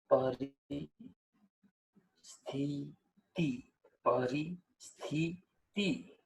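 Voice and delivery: પરિસ્થિતિ slowly, each i kept short; slow, soft પરિસ્થિતિ with short i's; short i sounds. Shown as a demonstration. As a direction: spell out પરિસ્થિતિ, short vowels. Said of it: "ઈનું ઉચ્ચારણ કેવું થાય છે?".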